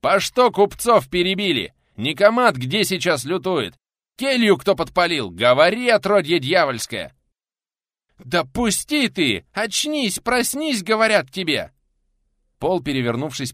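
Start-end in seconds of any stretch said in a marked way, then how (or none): 0.0-7.1 loud, high, relentless shouted questions; furious roaring interrogation; raging pensioner. A narrator's reading. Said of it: "Разошедшегося пенсионера было не унять". 8.2-11.7 very high, loud protest; high-pitched alarmed cries; frantic shouting. A narrator's reading. Pinned guest shouting at attacker.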